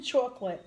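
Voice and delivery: "chocolate" with an open "ah", CHAHK-lit; different pronunciation. Shown as a demonstration. New Yorker trying the proper way, standard pronunciation. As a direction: try "chocolate" the proper, non-New York way. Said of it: "That's a different way of saying it".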